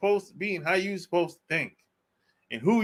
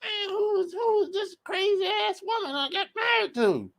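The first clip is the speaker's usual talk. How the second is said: side-eye disbelief; 11 semitones higher, 4 dB quieter than usual. Retold or imitated. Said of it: "side eye like".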